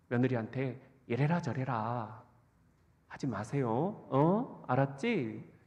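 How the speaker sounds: gently wheedle, a touch of cute pleading; mild coaxing. Retold or imitated. Son gently asking his mom to look after his wife, mildly coaxing. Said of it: "이렇게 애교 섞인 문자를".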